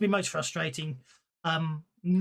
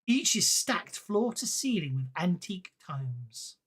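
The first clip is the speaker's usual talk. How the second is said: slow, unhurried scene narration; slow descriptive read of a dusty maze of books; game master scene setting; slower than usual. A narrator's reading. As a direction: set the scene for the players, taking your time.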